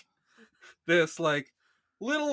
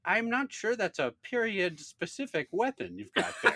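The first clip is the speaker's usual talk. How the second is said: dry teacher voice; 3 semitones higher than usual. Retold or imitated. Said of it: "the exact words were".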